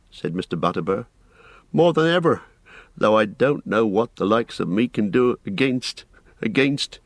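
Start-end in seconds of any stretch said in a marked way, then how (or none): 1.7-7.0 hesitant, trailing into a repeat; faltering. Acted. Innkeeper cannot name the enemy, faltering. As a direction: lose nerve before finishing the sentence. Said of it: "he faltered".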